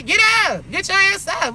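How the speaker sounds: high, firm mock order; Shorty's command. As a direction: boss them up like Shorty does. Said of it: "how Shorty say".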